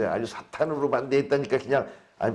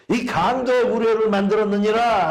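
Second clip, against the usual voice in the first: a retold rebuke, raised but only mildly heated; angry rebuke; 6 semitones higher, 3 dB louder than usual. Preacher voicing Jesus driving out traders, mild mock anger. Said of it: "화를 내셨어요".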